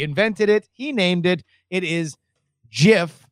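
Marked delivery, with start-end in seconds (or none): 2.7-3.3 "gif" with a soft G, like jif. Shown as a demonstration. Inventor's way, "gif" said as jif. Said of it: "a soft G".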